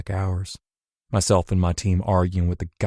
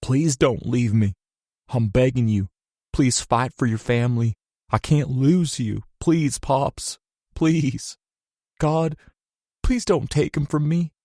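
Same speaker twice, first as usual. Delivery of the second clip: desperate bellowed plea; 5 semitones higher than usual. A narrator's reading. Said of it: "I bellowed".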